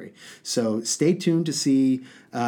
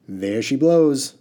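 slow, louder cry of triumph; cried out; 6 dB louder, slower than usual. Acted. Water genie crows to Haroon about the tap, slow loud cry. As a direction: call it out like a genie showing off. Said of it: "cried the water genie".

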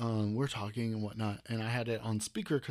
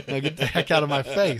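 put-on old prospector; 3 semitones higher, 10 dB louder than usual. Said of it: "You young whippersnapper".

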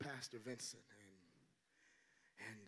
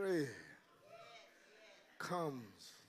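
slow, quiet, low, every word set apart; preacher drops low and spaces the words out; slow spaced proclamation; 5 semitones lower, 3 dB quieter, much slower than usual. Acted. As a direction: let each word land alone.

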